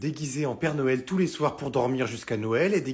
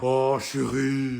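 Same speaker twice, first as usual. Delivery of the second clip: pleading whine; 3 semitones lower, much slower than usual. Acted. Pleading to offended wife.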